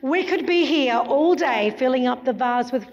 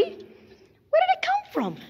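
surprised; 14 semitones higher, 3 dB quieter, slower than usual. Acted. Surprised magician asking puppet.

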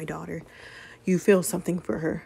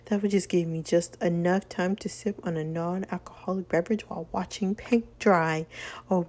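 sarcastic. Acted. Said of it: "that charming sarcasm".

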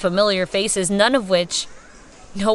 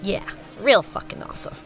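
sarcastic; 4 dB quieter than usual. Acted. Sarcastic reply to Holly.

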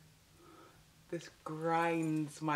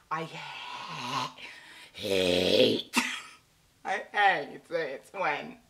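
laughing; 2 semitones lower, 4 dB louder, much slower than usual. Real, not acted. Laughing restart with low voice.

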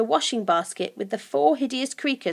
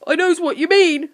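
high, loud creature agreement; a touch of goblin giggle; slightly giggly creature; 6 semitones higher, 8 dB louder than usual. A narrator's reading. Creature agrees with his friend, slightly giggly. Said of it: "started giggling a little".

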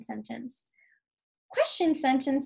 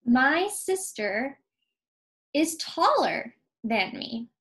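matter-of-fact statement; slower than usual. Shown as a demonstration. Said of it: "so I know it's just a statement".

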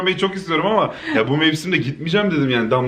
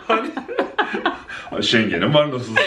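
mocking imitation; much slower than usual. Teasing imitation of her friend.

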